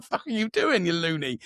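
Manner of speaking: high-pitched mock indignation; joking protest. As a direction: scold playfully, not really cross. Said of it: "she took it on jest".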